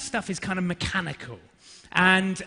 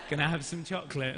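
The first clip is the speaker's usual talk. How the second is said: put-on coaxing child; 2 semitones lower, 6 dB quieter, faster than usual. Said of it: "she's used different tactics".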